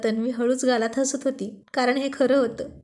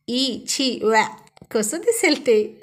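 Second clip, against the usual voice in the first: mock disgust; much slower than usual. Mimicking disgust at lizard romance.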